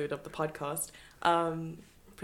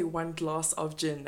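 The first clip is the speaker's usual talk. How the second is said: imitating British pronunciation; slower than usual. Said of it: "I like how you say".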